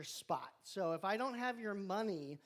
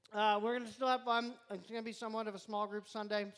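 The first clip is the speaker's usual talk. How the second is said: mouth full; faster than usual. Real, not acted. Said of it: "Sorry, I'm chewing in your ear".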